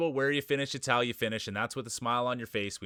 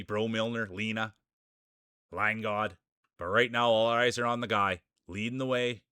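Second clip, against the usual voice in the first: race announcer. Acted. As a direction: call the racers onto the track like a ringside announcer. Announcer calls race lineup.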